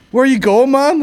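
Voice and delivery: very high, loud turkey squawk; alarmed shout. Acted. Turkey calling after a friend being carried off, shrieking. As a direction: shriek it after your departing mate.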